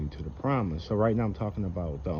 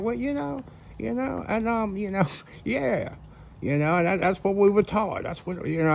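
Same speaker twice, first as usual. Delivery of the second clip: much higher, flustered and stalling; hammed-up flustered pre-tribber, pitched very high; mocking pre-tribber voice; 10 semitones higher than usual. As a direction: fumble for an answer like a cornered believer. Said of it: "And they're like".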